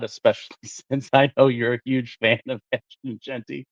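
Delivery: sarcastic tease through a giggle; giggling sarcasm. Real, not acted. Co-host teasing the other about his supposed favorite player, giggling sarcastically. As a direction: let a giggle leak into the mock praise. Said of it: "That's why I was giggling".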